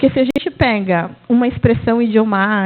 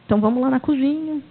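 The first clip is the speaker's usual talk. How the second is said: soothing teacher; 4 semitones higher, 4 dB quieter than usual. Retold or imitated.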